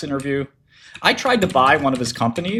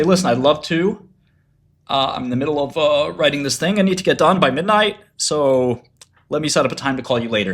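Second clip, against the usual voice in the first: polite brush-off; 3 semitones higher than usual. Pretend. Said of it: "then you say".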